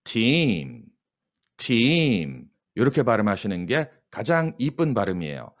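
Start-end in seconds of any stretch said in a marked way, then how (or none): 0.0-0.8 팀 long and strong with a pitch curve; 팀 held long and strong, bending in pitch; long curved team. Shown as a demonstration. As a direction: draw out 팀 with a curve. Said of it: "좀 길고 세고 굴곡이 있어야 돼요".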